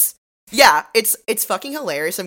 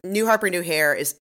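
usual speaking voice

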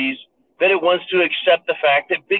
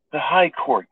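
slow, hushed mock-reverent tone; mock reverence. Shown as a demonstration. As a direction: say it as if bowing to the judges. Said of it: "say it with reverence and lower our tone of voice".

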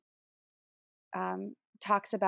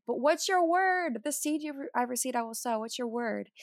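higher-pitched, insistent retold plea; wrestling plea; 3 semitones higher than usual. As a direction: imitate yourself pleading for an answer. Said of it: "I was just wrestling. I was asking".

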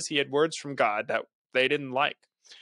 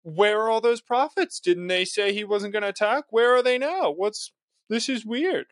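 higher, louder mock puzzlement; sarcastic Jeremiah; 8 semitones higher, 3 dB louder than usual. Jeremiah mocking the king about his prophets, sarcastic. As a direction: play up fake bafflement at the missing prophets. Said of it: "Jeremiah here is being sarcastic".

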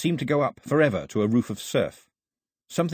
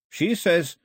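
put-on higher, earnest young translator voice; Carley's voice; 7 semitones higher, 3 dB louder than usual. A narrator's reading. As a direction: voice Carley relaying the old woman's words.

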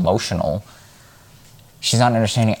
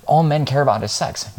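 mock critic; 6 semitones higher than usual. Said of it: "people who are like".

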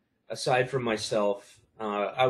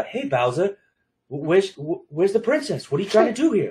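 louder, higher Boston-style tough guy, half laughing; mock Boston accent; 7 semitones higher, 6 dB louder than usual. Son mocking the Mark Wahlberg accent, louder and higher. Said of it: "I don't get a".

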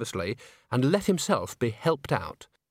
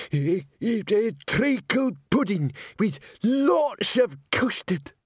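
high, slow mumble from a dozing man; high, slow sleep-talk; 9 semitones higher, slower than usual. Acted. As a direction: dreamily blurt it out half asleep. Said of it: "He talks in his sleep".

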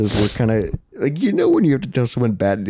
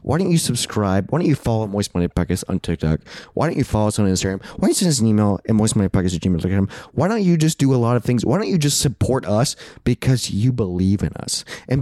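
mock aggressive. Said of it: "I got very aggressive".

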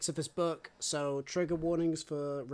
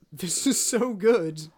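louder, slow, savouring every word; gushing delight; 2 semitones higher, 6 dB louder, slower than usual. Retold or imitated. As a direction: say it like a fan swooning over a great read. Gushing over a beloved chapter.

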